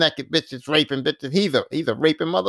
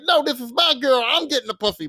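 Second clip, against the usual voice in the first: raised-pitch mock protest; snapping out; 6 semitones higher than usual. Imagined James claiming his girl from a rival, snapping out. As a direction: imitate him staking his claim. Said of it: "James was gonna snap out".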